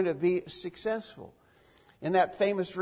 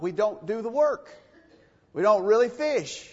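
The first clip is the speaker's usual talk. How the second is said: rising emphasis; 6 semitones higher, 6 dB louder than usual. Real, not acted.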